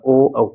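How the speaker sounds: "ओ", then "औ", voiced from the throat through rounded lips; rounded-lip vowels. Shown as a demonstration. Teacher explains throat and lips to students, rounded-lip vowel demonstration. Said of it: "होठ आपस में गोल होता है".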